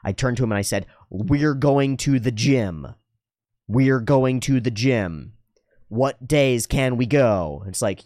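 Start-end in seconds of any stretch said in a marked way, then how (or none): 1.1-7.6 slow, deliberate insistence; firm insistence. Retold or imitated. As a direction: lay it down slowly, word by word. Firm order to roommate retold.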